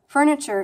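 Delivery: "furniture" with its unusual R sounds; odd R sounds. Shown as a demonstration. Pointing out her New York influence, "furniture" with odd R's. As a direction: show off the different R's in "furniture". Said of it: "Can you hear that?".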